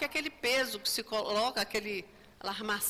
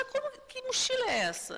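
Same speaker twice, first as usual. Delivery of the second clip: shocked; 14 semitones higher, faster than usual. Retold or imitated. Spirit shocked at backpack.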